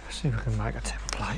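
hushed, breathy whisper to himself. Real, not acted. Builder whispers to himself while marking out.

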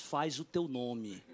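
low, slow, hushed goading; imitated friend quietly winding him up; sly egging-on. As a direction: tempt him softly, stretching each word. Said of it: "o Tom dando corda".

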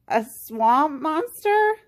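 slow, high, rising disbelief; frozen with fright, voice climbing; alarmed question. A narrator's reading. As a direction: stretch it out in mild alarm. Frightened Goose freezes, asks in alarm.

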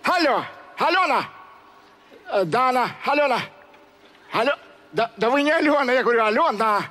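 boozy working-class guy on the phone; rough drunkard answering a call; Kuzmich on the phone. Acted. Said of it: "«Кузьмич разговаривает по телефону»".

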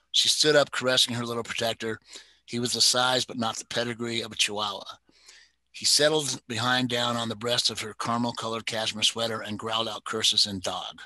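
steady storyteller reading a crime novel; story narration. A narrator's reading. Reader sharing a favorite novel with listeners, narrating. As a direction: read the mystery aloud, even and measured. Reads novel excerpt aloud.

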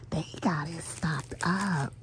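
hushed aside while shopping; whisper. Real, not acted. Whispering to viewers about the stocked shelves. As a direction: breathe it under her breath to the viewers.

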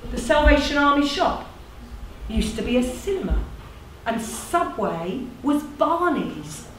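measured recital with deliberate pauses; lightly performed storytelling, phrases falling away; monologue narration. Acted. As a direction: narrate it like a spoken tribute.

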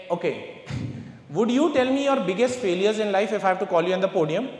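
ordinary delivery

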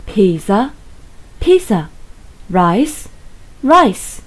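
each word twice, rising then falling; list reading tune. Shown as a demonstration. Teacher modelling vocabulary for students, rise then fall. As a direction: model words for the class to repeat. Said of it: "other food like".

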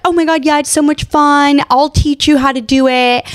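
high, eager mock-gushing boyfriend voice; imitating David's cheerful sales pitch; excited boyfriend. Boyfriend promising his girlfriend skiing fun, high and eager. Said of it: "David was like".

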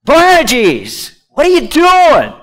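loud, high, baffled protest; exasperated challenge. Acted. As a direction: call them out in disbelief, pitch leaping on the question. Acts out people's confused challenge.

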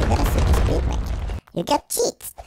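fast low whisper; hushed. Real, not acted. Gamer marvels at the character's speed, fast whisper. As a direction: rush it out under your breath. Sudden hushed aside over music.

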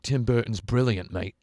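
light imitated British accent. Imagined British man praising Tim Burton, in a light British accent. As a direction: do a passing British bloke. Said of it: "a British man, uh, being like".

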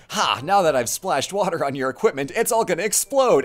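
mock triumphant quip, building at the end; gloating hero. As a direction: gloat like a reckless cartoon hero. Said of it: "and he's like".

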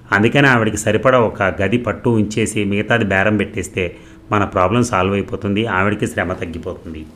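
an excited wife pitching her idea, loud and quick; eager pitch. Acted. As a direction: talk him into it with bright enthusiasm. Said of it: "ఉత్సాహంగా అతని వైపు తిరిగి చెప్పటం".

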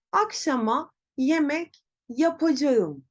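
"Akşama yemek yapacağım" with every letter said, "yapacağım" in full as ya-pa-ca-ğım; careful letter-by-letter reading of "yapacağım"; spelling pronunciation. Shown as a demonstration. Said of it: "Peki telaffuz bu şekilde mi olmalı".

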